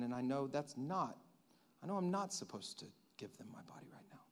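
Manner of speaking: soft, low, fading almost to a whisper; quiet private prayer. Acted. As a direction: confide in God softly. Acts a pressured person praying privately.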